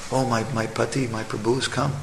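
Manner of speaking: soft, tender greeting; devoted wife. Retold or imitated. Chaste wife greeting her tired husband, soft and tender. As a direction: welcome him softly and devotedly.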